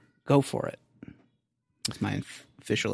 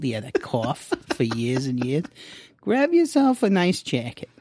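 Jewish guy voice. Acted. Voicing the fretting wisdom ball.

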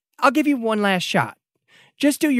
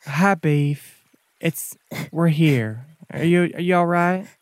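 quiet and soft. Acted. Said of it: "real quiet and soft".

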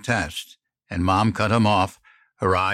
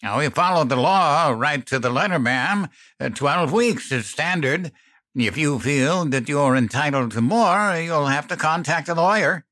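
sputtering; 6 semitones higher than usual. A narrator's reading.

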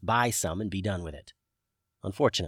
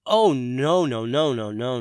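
Arlo voice; 6 dB louder than usual. A narrator's reading. Arlo protests.

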